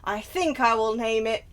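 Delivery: lightly voiced brooding vampire; Trevor. Player reading journal as Trevor, lightly voiced impression. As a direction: savour the reading with a hint of drama. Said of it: "by that, that voice".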